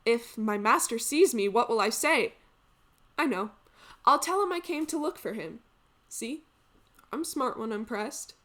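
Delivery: lively stage aside, working out an excuse; comic maid scheming. Acted. Maid planning what to tell her master, comically self-satisfied. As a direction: think aloud, then pleased with yourself.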